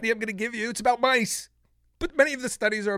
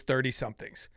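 normal talking voice

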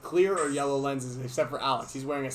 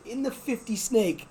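higher, slow, baffled yell at a teammate; incredulous shout; 9 semitones higher, slower than usual. Retold or imitated. Running up to Alex, a stunned, drawn-out yell. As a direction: demand what on earth he is doing. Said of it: "I'm like".

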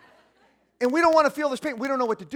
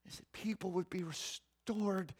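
softer, dropping into a whisper; preacher drops to a whisper for the restoration; 3 semitones lower, 12 dB quieter than usual. Real, not acted. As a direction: breathe it out as a hushed prayer.

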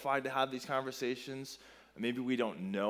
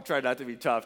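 words half-sobbed through tears; trying to hold back sobs; a kid crying through the pain; 5 dB louder than usual. Retold or imitated. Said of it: "totally crying like a small child".

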